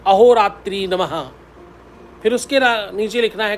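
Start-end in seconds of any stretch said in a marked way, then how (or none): 0.1-1.1 slow dictation. Shown as a demonstration. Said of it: "काले pen से ही लिखना है".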